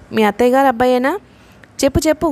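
eager, lightly curious asking; a mild touch of nosy eagerness; pressing a friend for gossip, mildly curious. Acted. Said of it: "కుతూహలంగా అడిగింది".

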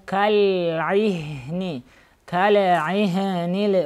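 slow, smoothly joined "каль-ихни"; measured tajweed demonstration of "каль-ихни"; smooth recitation. Shown as a demonstration. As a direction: glide through лям and ха in "каль-ихни". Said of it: "Лям и ха читайте плавно".

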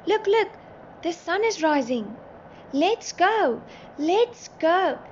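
high, loud eager calls; high-pitched burst of excitement; excited shouting. A narrator's reading. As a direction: shout it out, urging everyone along. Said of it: "Poppy shouted".

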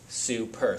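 "Super" said slowly with a long oo; "Super" as soo-per, the oo held long; teacher modelling a word. Shown as a demonstration. A teacher to students, modelling "Super" with a clear long oo. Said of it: "And then you hear Sue".

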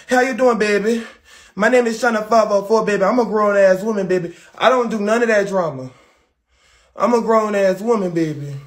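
mock New Orleans accent, lightly put on; fake New Orleans accent. Playing China five oh four for viewers, fake New Orleans accent. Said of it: "that fake-ass New Orleans accent".

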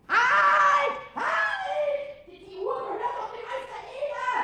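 high, loud alarmed cry to stop her; shout. Acted. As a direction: yell at the thief to stop. Pumuckl sees the theft.

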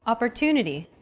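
Opportunity with a longer TU, the other syllables shorter; stress on TU. Shown as a demonstration. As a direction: stretch the third syllable of Opportunity. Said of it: "pronounced longer than all other syllables".

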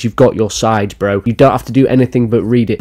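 ordinary talk

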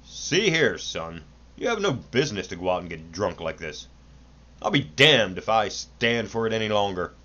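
indignant stern father. Acted. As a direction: scold with rising indignation. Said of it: "The father waxed indignant".

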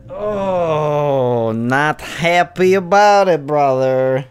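frustrated shout. Real, not acted. Frustrated gamer calls out.

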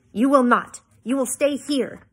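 father putting his foot down, loudly; angry command. A narrator's reading. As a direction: forbid it firmly and forcefully. Father forbids daughter in quarrel.

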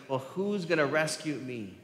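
imitating an appeal, voice lifted a little; mild crying out. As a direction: cry out for rescue, without a full shout. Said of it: "he's crying out".

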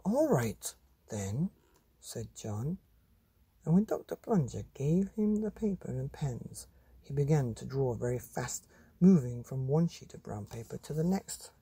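put-on lively read-aloud voice for children; storybook reading. A narrator's reading. Reading a monster picture book to children, animated. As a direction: tell it like a bedtime story to kids.

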